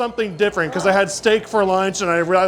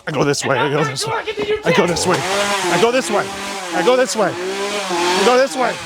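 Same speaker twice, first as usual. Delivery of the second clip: nervous insistence. Real, not acted. Visitor blocked by actors keeps insisting, rising nervously.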